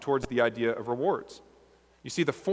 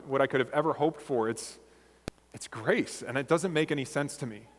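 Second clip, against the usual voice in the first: humbled awe. Retold or imitated. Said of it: "it would probably sound like this".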